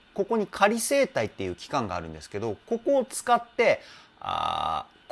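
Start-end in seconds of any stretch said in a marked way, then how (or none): 4.2-5.1 low creaky fry ah; edge voice creak. Shown as a demonstration. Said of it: "この音を出してから歌うんですよね".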